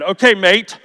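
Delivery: lightly attempted Australian accent for a colleague; mock Australian accent, not fully committed. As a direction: put on a slight Australian accent. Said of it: "there was my Australian".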